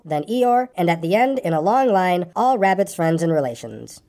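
story narration. A narrator's reading. Reader telling of Pooh's coming adventure, story narration. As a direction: read it to children as a bedtime tale.

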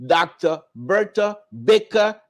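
each word of "Doctor Bertha Baker" set apart; emphatic, measured title and name, Baker stressed. Real, not acted. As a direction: announce the name deliberately, weighting Baker. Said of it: "put emphasis on the word Baker".

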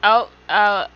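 lightly voiced cheerful elf greeting a traveller; friendly elf companions. Player voicing elf companions welcoming an adventurer, lightly cheerful. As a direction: read it as a chirpy game companion. Voices game character dialogue.

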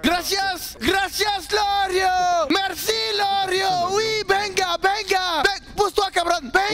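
very high, excited fake Spanish; mock Spanish accent. Roleplayer thanking Lorio, high mock Spanish accent. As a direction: shout it in a hammed-up Spanish-style accent. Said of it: "mettre des sonorités espagnoles à la fin".

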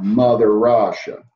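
loud, mock Russian accent; hammy Russian accent. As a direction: boom it out in a playful Russian accent. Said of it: "That's my Russian accent".

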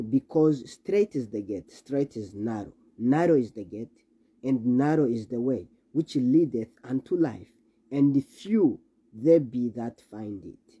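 slow, solemn King James reading; scripture reading. Acted. Preacher reading the gospel to the congregation, solemn and slow. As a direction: read the verses with weight and slow pauses.

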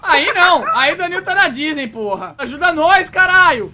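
yelling for help, furious; loud frustrated shout at the team; real desperate yell; angry shout. Real, not acted. Begging teammate for help mid-fight.

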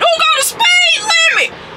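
high, far-off disbelieving yelp; incredulous. Real, not acted. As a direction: squeal it in disbelief. Incredulous outburst about speed limit.

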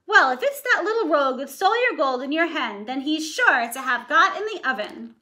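mildly voiced ogre's wife. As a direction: explain it like a bossy wife. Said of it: "my voice changed".

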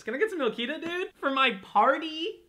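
squeaky imitation of a dubbed kid; mock kid voice. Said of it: "Just found this".

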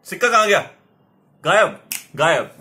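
high, loud mock amazement; kids party magician. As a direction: gasp at the vanished coin for the kids. Magician reveals coin vanished.

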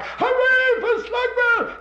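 high, slow drawn-out crowd cheer; stretched high cheer from the crowd. Acted.

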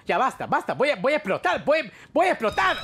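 mock explosion of rage; building outburst. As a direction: climb until you yell it. Guest about to explode.

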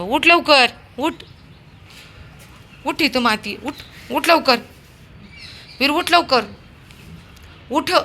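high, loud command to get up; loud urging. Real, not acted. Owner orders her dog off the dirt, loud urging.

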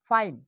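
ফাইন as one syllable, "fain"; correct reading. Shown as a demonstration. Teacher offering the last option, ফাইন with silent final e. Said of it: "এখন উচ্চারণটা হচ্ছে কি?".

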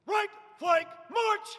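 each word separated, march rising; drawn out parade commands. Shown as a demonstration. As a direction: call it out word by word. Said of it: "not separating each word".

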